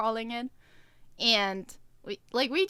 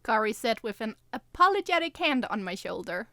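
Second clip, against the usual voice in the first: lightly voiced first-person storytelling; story narration. A narrator's reading. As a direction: read the chapter evenly to listeners.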